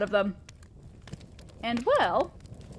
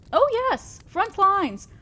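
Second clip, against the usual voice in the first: higher, louder, playfully wicked; mock gleeful tease; 7 semitones higher, 4 dB louder, slower than usual. Demon lord teasing his minion about front lines, mock glee. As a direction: dangle a cruel joke with relish.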